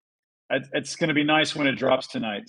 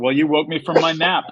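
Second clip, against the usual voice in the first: Mihawk retort; 3 semitones higher, 6 dB louder than usual. Retold or imitated. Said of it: "Don Krieg said".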